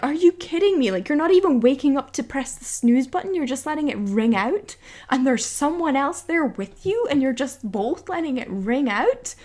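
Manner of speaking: exasperated, stretching the key complaints; retold exasperation. Retelling her exasperation at alarm.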